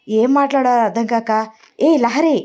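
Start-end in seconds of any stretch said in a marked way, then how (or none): 1.8-2.4 higher-pitched, mildly angry call. A narrator's reading. Aunt pulling up Lahari before her guest, mildly angry. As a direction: call her name with a touch of anger. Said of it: "జగతి కోపంగా".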